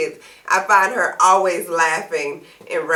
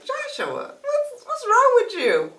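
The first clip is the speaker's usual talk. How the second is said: mild mom voice. Retold or imitated. Sister voiced asking her son.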